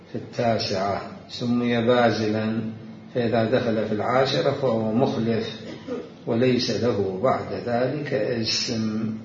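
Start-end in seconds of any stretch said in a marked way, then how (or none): 1.3-9.1 slow, deliberate classical Arabic reading; formal reading aloud. Real, not acted. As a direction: read each definition out with weight. Reads a book definition. (قراءة متأنية لنص بالفصحى)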